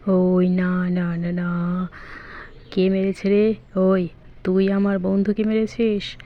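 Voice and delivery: low, menacing tough guy. Acted. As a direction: growl it like a bully. Big friend car confronts attacker.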